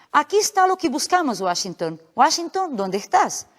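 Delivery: lightly acted dog owner calling out, pitch rising then dropping; calling lost dog. Comic character calls to his lost dog, lightly acted calling.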